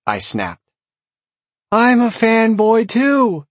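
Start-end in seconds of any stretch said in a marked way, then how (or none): 1.7-3.5 high, loud, slow little demon; eager squeaky imp; whiny demon voice. A narrator's reading. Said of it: "Dorp said".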